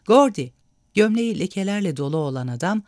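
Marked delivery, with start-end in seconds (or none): 0.1-0.5 louder call. A narrator's reading. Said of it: "dedi kalabalığın arasındaki çıkık dişli adam".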